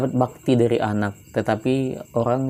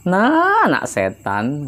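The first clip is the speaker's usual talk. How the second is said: mock angry mother; 3 semitones higher, slower than usual. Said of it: "kata emaknya".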